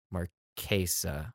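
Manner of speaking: Marquesa very slow and soft, mar-KAY-sa; quiet careful Marquesa, AY in the middle. Shown as a demonstration. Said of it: "is how to pronounce".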